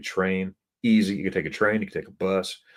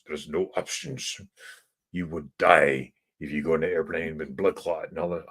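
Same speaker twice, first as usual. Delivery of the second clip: stern; 2 semitones lower than usual. Retold or imitated. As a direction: imitate a doctor giving a grave warning. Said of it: "he got stern".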